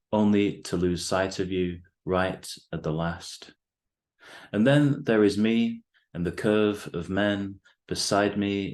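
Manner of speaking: measured, deliberate poem recital with weighted pauses; poetry reading. Acted. Poet reads own poem to the host and listeners, measured recital. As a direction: read it line by line, letting each phrase land.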